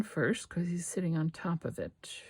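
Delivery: whispered while working; quiet working whisper. Real, not acted. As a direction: whisper it, focused on the glue. Concentrating while gluing.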